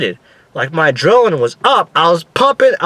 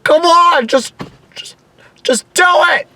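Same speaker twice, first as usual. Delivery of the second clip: high, strained, exasperated pleading; impatient yell; 13 semitones higher than usual. Retold or imitated. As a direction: yell at the ride to hurry up. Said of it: "every time I yell".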